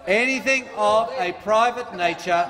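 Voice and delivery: slow, deliberate reading of the rule; read slowly. Shown as a demonstration. Reading slowly to a heckling member. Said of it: "I'll read it slowly for you".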